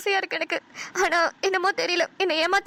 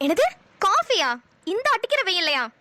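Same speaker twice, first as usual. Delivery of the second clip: incredulous. Acted. Wife incredulous at coffee request. (காஃபியா என்று மெதுவாக சத்தமாக நம்ப முடியாமல்)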